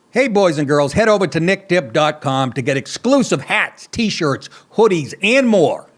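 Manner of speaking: upbeat merch plug for the show; ad read. Acted. Host plugging merch to viewers in an upbeat ad read. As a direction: sell the store to the fans, slowing on the web address.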